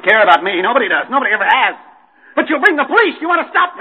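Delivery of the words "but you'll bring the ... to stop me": rising panic. Acted.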